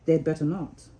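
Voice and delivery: mean it darkly; significant. Acted. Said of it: "he added significantly".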